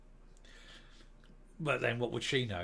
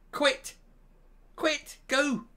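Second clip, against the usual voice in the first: taunting; 12 semitones higher, much slower than usual. Real, not acted. Dismissive taunt.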